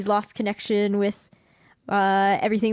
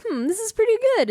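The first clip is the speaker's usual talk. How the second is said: impressed gang; 13 semitones higher, much faster than usual. Retold or imitated. Gang tasting chow mein.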